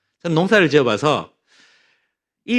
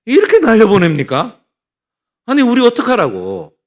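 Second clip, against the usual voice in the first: retold angry complaint; 3 semitones higher, 4 dB louder than usual. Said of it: "얼마나 하나님께 내가 원망을 했는지".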